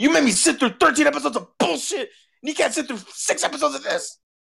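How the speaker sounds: acted, very high, rough, ragged furious rant. Retelling why the speaker got mad at her, imitating an angry outburst. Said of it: "that's why I got mad at her".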